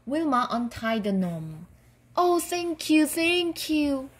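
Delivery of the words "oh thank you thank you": high-pitched, effusive thanks; grateful cry. A narrator's reading. Freed gnome thanks Wilma for untying him, crying out. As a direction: cry out in relief, pitched well up. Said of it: "he cried".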